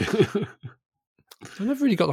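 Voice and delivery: slow words through real laughter; laughing through a confession about jelly and ice cream; laughing while talking. Real, not acted. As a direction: let the laugh carry the line.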